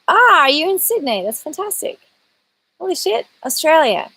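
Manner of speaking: high-pitched, amazed reaction; delighted surprise. Real, not acted. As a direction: react thrilled to a faraway viewer. Amazed at viewer in Sydney.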